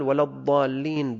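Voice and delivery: "الضالين" with an emphatic z sound; dad as za. Shown as a demonstration. Teacher demonstrates an invalidating error, "الضالين" said with za. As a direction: say "الضالين" as az-zaallin, long aa. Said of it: "بالضاء".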